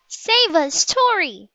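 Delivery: high, pleading shout; shout to the sky. A narrator's reading. Annie holding up the scroll, a high pleading shout. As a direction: call out to the sky for rescue. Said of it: "she shouted".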